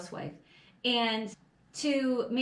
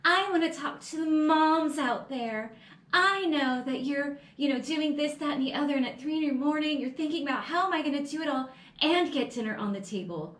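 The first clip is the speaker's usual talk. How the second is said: sweet put-on voice, a bit higher; lightly mocking a saccharine speaker; mock sugary political speech; 4 semitones higher than usual. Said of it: "And she's like".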